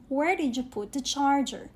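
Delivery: "Where did you put the charger?" rising on "Where", falling on "charger"; falling question intonation. Shown as a demonstration. Teacher showing students the intonation of "Where did you put the charger?", falling at the end. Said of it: "did you notice the intonation".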